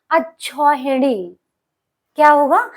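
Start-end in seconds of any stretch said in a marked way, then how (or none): 0.1-1.4 अक्षौहिणी syllable by syllable, slowly; slow careful pronunciation. Shown as a demonstration. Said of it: "ये शब्द बहुत ज्यादा पूछा जाता है". (अक्षौहिणी धीरे-धीरे बोलें)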